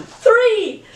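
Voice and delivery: very high, drawn-out burst of enthusiasm; enthusiastic. Shown as a demonstration. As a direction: exclaim it with gusto, pitch leaping up. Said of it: "You have to say it with enthusiasm".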